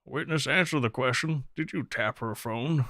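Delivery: lightly Southern courtroom questioning, slowing at the end; Southern accent. Acted. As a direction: question the witness with a Southern twang. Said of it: "I don't know why I became Southern".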